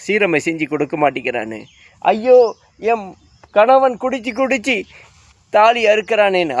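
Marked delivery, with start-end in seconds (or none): 2.0-6.5 high mocking wail of a wife; mock wife's wail. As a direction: parody a wife crying over a drunk husband. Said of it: "அழுவுறீங்களா?". (குடிகார கணவனுக்காக அழும் மனைவியின் கேலியான உயர்ந்த ஓலம்)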